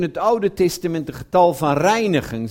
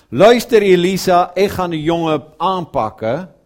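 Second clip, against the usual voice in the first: louder, mock-stern "Luister Elisa"; mock God voice; 6 dB louder than usual. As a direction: lightly play a threatening God. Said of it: "Zoals God niet gezegd heeft".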